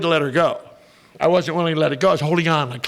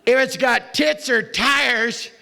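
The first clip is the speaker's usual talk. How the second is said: hint of a gruff drunk; 5 semitones higher than usual. Drunk gives his punchline advice.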